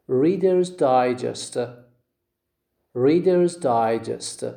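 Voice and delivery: slow Reader's Digest with DI stressed; stress on first syllable. Shown as a demonstration. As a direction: say Digest as DI-gest, deliberately. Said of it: "stress is on the first syllable".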